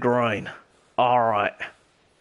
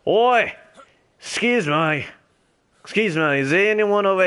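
calling out; 7 semitones higher than usual. Real, not acted. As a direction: shout Oi to get attention. Calling out to a stranger.

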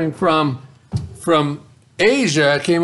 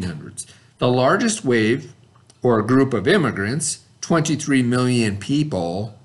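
steady, even classroom read; reading aloud from textbook. Acted. Teacher reading the textbook passage aloud, steady classroom reading. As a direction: read the passage out clearly for students.

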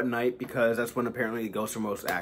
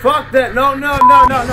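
high, loud string of no's; spooked refusal; 8 semitones higher, 6 dB louder than usual. Real, not acted. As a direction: refuse in alarm, pitched right up. Spooked by voice in played video.

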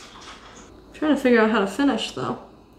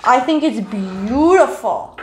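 gushing; 5 dB louder, much slower than usual. Real, not acted. Loud gushing over painting.

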